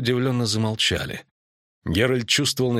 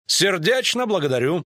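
high-pitched character voice; high, ceremonious thank-you; courtly figure's thanks; 10 semitones higher than usual. A narrator's reading. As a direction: give effusive thanks in a raised voice. Куткудак bows, voiced by narrator.

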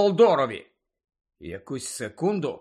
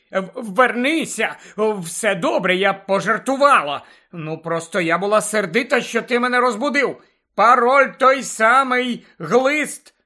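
raised, higher calling-out voice, building at the end; shouting after someone; 5 semitones higher, 5 dB louder than usual. A narrator's reading. Portrait to Harry as he runs away, shouting after him. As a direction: call after someone running off. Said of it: "котра кричала йому вслід".

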